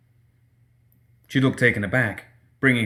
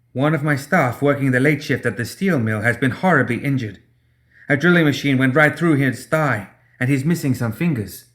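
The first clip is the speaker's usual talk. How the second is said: lightly voiced frightened woman, raised; Mei Feng, urgent and pleading; 4 semitones higher than usual. Mei Feng begs the doctor to treat her injured worker, lightly voiced urgent plea.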